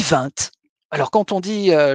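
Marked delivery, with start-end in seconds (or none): 0.0-0.5 "vingt" with the final t sounded, "vint"; Franche-Comté pronunciation. Shown as a demonstration. Lecturer showing how Franche-Comté locals say the number, final t sounded. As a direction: say "vingt" as "vint", t clearly pronounced. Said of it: "lorsque l'on est en Franche-Comté, on dit".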